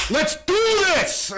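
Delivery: high, eager yell; excited shout. Pretend. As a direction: throw yourself in, thrilled. Eager alien volunteer, laughing scene.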